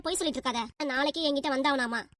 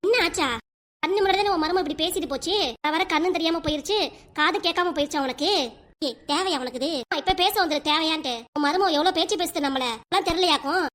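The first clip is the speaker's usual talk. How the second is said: angry shouting. Acted. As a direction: hurl it back at her, furious. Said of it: "இப்படி கத்திட்டு இருக்க நீ".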